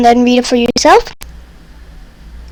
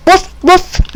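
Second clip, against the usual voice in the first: much higher yappy puppy bark; high playful woof; 6 semitones higher than usual. Pretend. Reading the dog book aloud, a high playful puppy bark. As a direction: yip it like a tiny dog.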